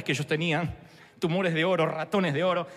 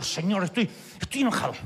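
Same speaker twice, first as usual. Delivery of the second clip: angry prayer building; 5 semitones higher, faster than usual. Retold or imitated. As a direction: build up the anger each time. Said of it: "Y entonces enojado, digo". (oración enojada que sube hasta un grito agudo y fuerte)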